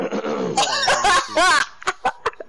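harsh throat clearing after choking; throat clearing cough. Real, not acted. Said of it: "spit went down the wrong way".

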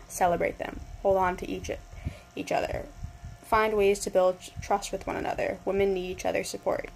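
measured, enunciated recital of a speech; careful read-aloud. Shown as a demonstration. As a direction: read the speech out clearly, as if addressing a hall. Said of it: "I will try to read it slowly to enunciate".

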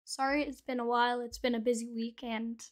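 talking through new braces. Real, not acted. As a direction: speak around fresh braces on the teeth. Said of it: "I just got braces on".

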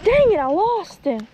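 real frustration at losing the fish; frustrated outburst. Real, not acted. Angler to himself after losing a fish, exasperated outburst.

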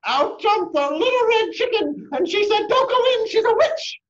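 high, loud excited chicken; bursting in. Acted. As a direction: jump in shouting a warning.

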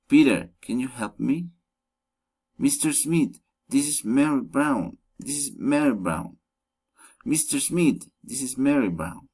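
name set apart, as in "Peter, can you help me"; direct address intonation. Shown as a demonstration. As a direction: call "Mister Smith" first, then give the sentence. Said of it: "rising intonation".

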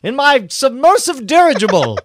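hammed-up high James Cameron voice; James Cameron impression. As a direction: play him as a rich eccentric filmmaker phoning in. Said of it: "he would say".

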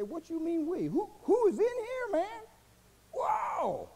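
high startled cry of disbelief; freaked-out alarm. Acted. Preacher voicing a spooked sinner, startled high. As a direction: panic at a voice in your head.

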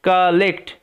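কালেক্ট split as ka-lekt; o sounded like a. Shown as a demonstration. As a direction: sound out কালেক্ট with an "a" in the first syllable. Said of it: "ও এর উচ্চারণটা আয়ের মতো হবে". (কালেক্ট, 'ও' হবে 'আ'-এর মতো)

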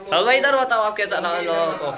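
loud, high excited call. Real, not acted. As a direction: shout over the party to get his reaction. Calling friend to the camera.

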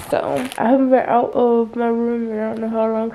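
talking in a strange voice for no reason; a hint of an unplanned funny voice; odd put-on voice. Real, not acted. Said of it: "I don't know why I'm talking like that".

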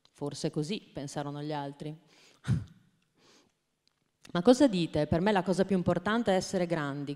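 put-on gentle storybook narration for small children; children's story reading. Trainer reading a picture book to teachers, storytelling voice. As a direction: read it like a bedtime picture book, animal voices lightly hinted.

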